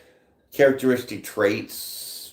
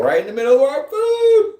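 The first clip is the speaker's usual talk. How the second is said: high, loud wail of disgust; exasperated outcry; 13 semitones higher, 8 dB louder than usual. Real, not acted. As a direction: build to a loud, high-pitched complaint. Exasperated rant about mother's ashtray.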